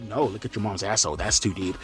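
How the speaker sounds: quiet low throwaway; quiet aside. Real, not acted. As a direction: drop low and soft, under the breath. Answering joke quietly.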